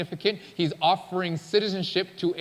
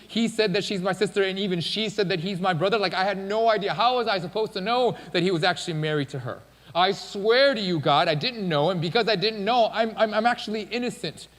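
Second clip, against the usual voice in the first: higher, agitated acted protest of innocence; pleading; 4 semitones higher, 3 dB louder than usual. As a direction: plead your case urgently to God. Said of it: "He pleads with God".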